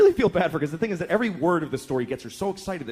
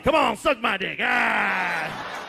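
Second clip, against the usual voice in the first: a hint of a pushy demon; mild demon voice; lightly voiced demon; 3 semitones higher, much slower than usual. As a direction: toss it off like a bored monster.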